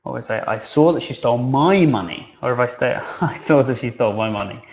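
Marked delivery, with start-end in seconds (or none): 0.5-2.4 "my" given the weight, falling on "money"; stress on my. Shown as a demonstration. Teacher showing students how stress changes meaning, stress on "my". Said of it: "I'm saying the same words, but the, the stress, the intonation". 3.2-4.6 "saw" stressed, said with a laughing edge. Shown as a demonstration. Teacher demonstrating tone to the class, stress on "saw". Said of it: "I'm saying the same words, but the, the stress, the intonation".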